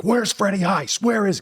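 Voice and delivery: furious actor shouting for the stunt coordinator; angry demand. Retold or imitated. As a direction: demand it at the top of the voice, fuming. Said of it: "'cause I'm mad at Freddie".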